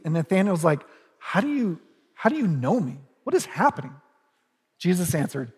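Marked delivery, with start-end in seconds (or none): 1.2-3.9 mildly startled and bewildered; a bit freaked out. Retold or imitated. Nathanael asks Jesus how he knows him, mildly bewildered. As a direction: lightly act out being caught off guard. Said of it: "is a bit freaked out".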